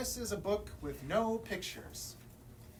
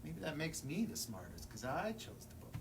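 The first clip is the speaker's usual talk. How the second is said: softer, lower self-satisfied aside; smug quiet aside; 3 semitones lower, 6 dB quieter than usual. Acted. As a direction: murmur it smugly.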